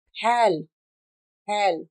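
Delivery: फैल with lips popping on ph; Hindi ph. Shown as a demonstration. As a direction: puff फैल from closed lips. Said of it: "फैल गया, कहते हैं ना". (फैल में हिंदी फ)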